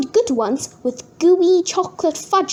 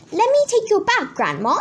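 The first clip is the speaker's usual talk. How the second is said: sweetly; 6 semitones higher than usual. Acted. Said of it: "said Henry sweetly".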